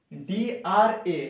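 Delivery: ডিআরএ spelled letter by letter, very slowly; spelling out letters. Shown as a demonstration. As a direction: spell out ডিআরএ, slow and deliberate. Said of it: "spelling drama again".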